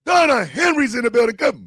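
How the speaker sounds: loud hype-man call; hype announcement. Real, not acted. Host hyping an arrival on the show, loud. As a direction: announce it like an arena entrance.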